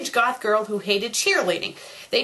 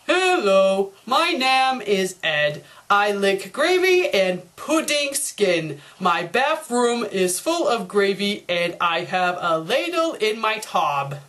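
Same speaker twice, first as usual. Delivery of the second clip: slow, lower, dopey reading of a badly spelt page; dumb Ed reading; 3 semitones lower, slower than usual. Shown as a demonstration. Double D reads Ed's error-filled essay, slow and dopey. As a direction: stumble through it like a clueless kid. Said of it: "Ed's paper".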